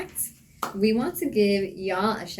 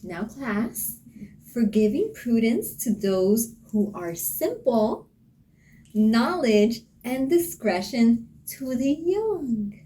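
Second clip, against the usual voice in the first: teacher voice; 3 semitones higher, slower than usual. Pretend. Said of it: "The teacher".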